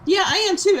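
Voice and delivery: high, loud eager agreement; excited. Real, not acted. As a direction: jump in with shared excitement. Echoing the excitement.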